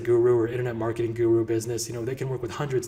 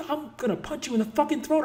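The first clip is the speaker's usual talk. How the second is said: mock threat; 11 semitones higher than usual. Camera operator ruined recording.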